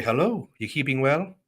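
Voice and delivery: light, badly faked Irish lilt; bad Irish accent. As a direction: imitate an Irish greeting, badly. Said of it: "Horrible accent".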